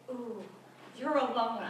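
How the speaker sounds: ooh, you're alone, said with fake pity; mocking pity. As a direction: sneer it with mock sympathy. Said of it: "what he meant to say was".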